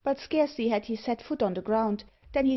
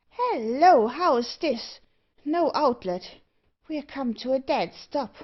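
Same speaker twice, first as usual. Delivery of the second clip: higher dwarf voice, loud at first; surprised dwarf; 5 semitones higher, 4 dB louder than usual. Acted. Dwarf discovers there is no outlet, in high surprise.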